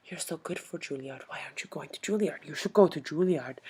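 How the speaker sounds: lightly voiced, puzzled old European lady; a hint of a confused little old lady. Confused old lady urging pianists toward Juilliard, lightly imitated. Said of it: "she looked a little confused".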